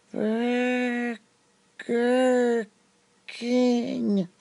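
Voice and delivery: high, slow 'Burger ... King' with long pause. Acted. Server slowly pronounces where the tourists are. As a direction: stretch 'Burger' and 'King' apart slowly. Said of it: "Just do it really slowly".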